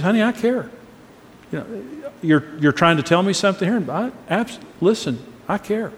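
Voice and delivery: caring tone. Shown as a demonstration. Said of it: "You can hear it in the tone of my voice".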